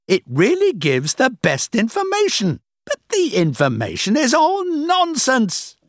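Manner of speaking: scornful rant. A narrator's reading. Boss boasting to Rachel that people are fools, scornful. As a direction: stretch the key words with loud contempt. Boss rants about foolish customers.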